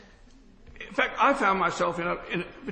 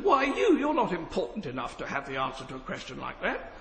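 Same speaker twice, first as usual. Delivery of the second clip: retold put-down; 2 semitones lower than usual. Peer recounts a lord belittling him to the chamber, dismissive put-down. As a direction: pitch leaps on the opening challenge, then sinks into disdain. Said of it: "the biggest put down".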